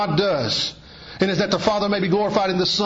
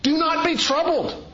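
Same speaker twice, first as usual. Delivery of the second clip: gentle Jesus voice; 12 semitones higher than usual. Acted. Preacher voicing Jesus' words.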